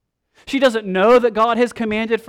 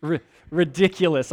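scoffing laugh. Retold or imitated. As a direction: laugh it off, unbelieving. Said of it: "We can almost hear her sort of laughing".

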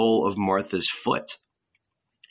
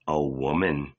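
with a smile; 7 semitones lower than usual. A narrator's reading. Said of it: "answered the angel with a smile".

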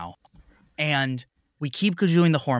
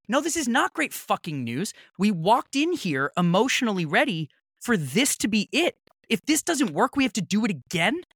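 high-pitched retold rant; higher, heated disbelief; pissed off; 8 semitones higher than usual. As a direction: let the outrage climb at the clinic. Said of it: "I was so pissed".

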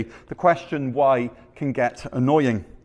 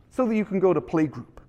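attempted Canadian accent for a dad; dad explaining in mock Canadian; 3 semitones higher, 3 dB quieter than usual. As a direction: put on a light Canadian accent. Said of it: "my best Canadian accent".

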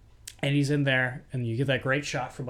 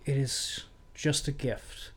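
soft, slow, choked-up gratitude; a touch of teary sincerity; imitating a tearful actor, softer and slow; tearful thanks; 8 dB quieter than usual. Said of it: "And he's crying".

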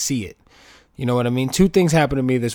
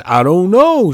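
mock shrug; 6 semitones higher, 9 dB louder, slower than usual. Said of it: "He kept doing this".

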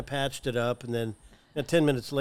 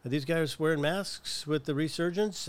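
higher, mock-worried question; imitating Catherine's worry; 3 semitones higher than usual. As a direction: voice the cautious partner's concern. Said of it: "Catherine goes".

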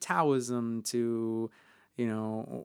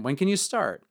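eager boss; 9 semitones higher, 5 dB louder than usual. Retold or imitated. Boss hiring him on the spot.

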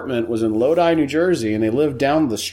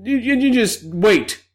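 much higher mobster, slowing to a knowing wait; goomba voice; 7 semitones higher than usual. Retold or imitated. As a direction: wise guy promising a surprise. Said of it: "And he's like".

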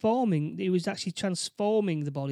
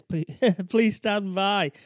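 slow robotic alien voice; 2 semitones higher, 6 dB louder, much slower than usual. Retold or imitated. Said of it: "basically it says".

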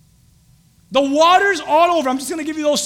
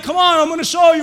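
wife, firm; 5 semitones higher, 6 dB louder, faster than usual. Retold or imitated. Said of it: "my wife".

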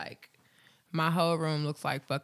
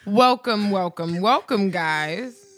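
much louder, slowed, hammed-up welcome; repeating louder and sillier; 2 semitones higher, 10 dB louder, much slower than usual. Shown as a demonstration. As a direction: shout the welcome, stretched out. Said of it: "Say it louder".

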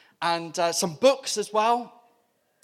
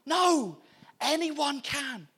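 high laughing no, no; high, giggly reassuring no; laughing reassurance; 8 semitones higher, much slower than usual. Retold or imitated. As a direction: laugh it off warmly, slow at the end. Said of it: "We're like".

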